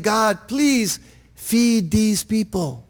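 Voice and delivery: slow, measured plea to God; lightly acted cry to heaven, drawn out. Heavens pleading with God to feed people, mildly crying out. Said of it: "the heavens are crying out".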